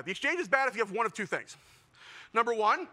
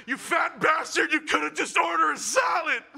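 mock self-scolding; 4 semitones higher than usual. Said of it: "while crying, going".

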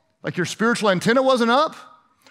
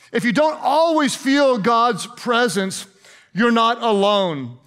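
slowly, word by word; slow right down to drive it home; slow emphatic repeat; slower than usual. Shown as a demonstration. Key point repeated slowly for emphasis.

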